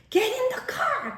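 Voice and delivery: high, urgent call-out; high-pitched hurried order; urgent command. Retold or imitated. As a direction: call the kid to jump in the car now. Urgently ordering child into car.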